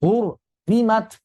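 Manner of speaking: 'Hur' heavy, separate light 'rimat'; thick then thin. Shown as a demonstration. Teacher shows separated idhar reading, thick-then-thin ro. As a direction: split 'Hur, rimat', heavy then light. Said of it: "Kemudian baru ri tipis".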